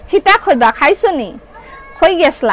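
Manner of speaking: short Sylheti questions; Sylheti dialect. Shown as a demonstration. Seller showing viewers what Sylheti sounds like, in Sylheti dialect. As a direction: reel off sample Sylheti questions one by one. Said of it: "সিলোটি".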